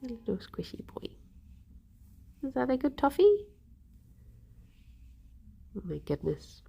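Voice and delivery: tender whisper to a pet. Real, not acted. Streamer whispering fondly to a little squishy pet. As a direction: whisper it adoringly.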